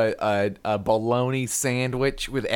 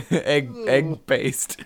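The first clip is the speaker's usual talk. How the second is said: whispering; much slower than usual. Pretend. Disgust joke about bad sandwich.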